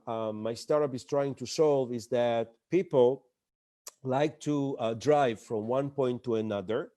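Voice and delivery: a mild, plodding, ordinary pitch voice; flat startup pitch. Shown as a demonstration. Founder pitching a navigation app, mildly plodding. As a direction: pitch it like every dull founder. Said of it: "I will show you an example".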